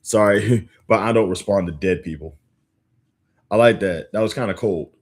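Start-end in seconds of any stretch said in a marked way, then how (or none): 0.0-2.4 laughing. Real, not acted. Reading a line he loves.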